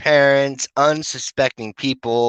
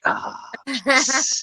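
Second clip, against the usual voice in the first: mock pleased; 12 semitones higher, 3 dB quieter than usual. Ironic reply to being ignored.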